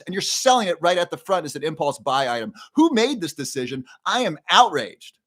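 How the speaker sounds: replaying the rant with rising pitch and indignation; retold outrage. To the grocery store manager about candy at checkout, heated outrage. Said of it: "I, I'm just outraged".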